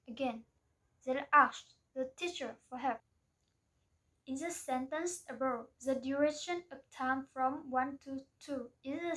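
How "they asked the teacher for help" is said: beats on ASKED, teacher and help; even beats on asked, teacher, help; stress-timed rhythm. Shown as a demonstration. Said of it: "time rhythm theory states".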